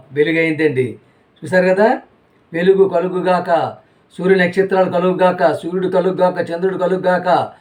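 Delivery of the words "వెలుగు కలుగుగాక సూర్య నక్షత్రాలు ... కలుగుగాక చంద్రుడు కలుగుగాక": voicing God's command. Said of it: "ఎవరు పలికిన మాటలు ఇవి".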